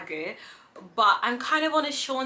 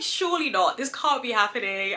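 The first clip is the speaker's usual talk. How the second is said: mock denial. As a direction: protest that it surely can't be so. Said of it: "I was in denial".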